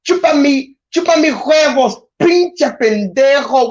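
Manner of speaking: mock Spanish cursing. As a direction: play an angry man cursing someone out in Spanish. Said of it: "cursing each other out?".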